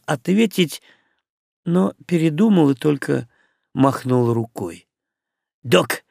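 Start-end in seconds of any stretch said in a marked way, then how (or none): 5.6-6.0 near-hysterical urgency; Мух demanding a name, mild hysteria; hysterical notes. Acted. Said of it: "истерические нотки".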